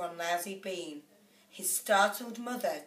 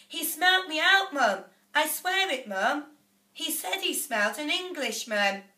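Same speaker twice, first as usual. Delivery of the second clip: frightened pleading; 7 semitones higher, 4 dB louder than usual. A narrator's reading. Frightened Jack pleads with mother.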